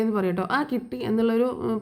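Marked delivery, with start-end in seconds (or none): 0.6-1.0 a softer, dismissive mock reply; imitating a scornful brush-off; lightly voiced contempt, shrugging it off; contemptuous. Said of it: "പുച്ഛഭാവത്തിൽ പറയും കേട്ടോ".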